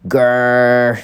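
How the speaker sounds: growl. Acted. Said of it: "said brother".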